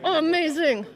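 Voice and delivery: loud sideline cheer; excited cheering. Real, not acted. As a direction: cheer the player on, ending on a long loud yes. Cheering a live defensive play.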